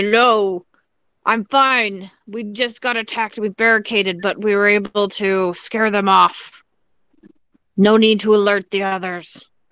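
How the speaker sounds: deep goblin creature voice. A player runs over in the game and answers in a deep goblin-y voice. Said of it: "in my like deep goblin-y voice".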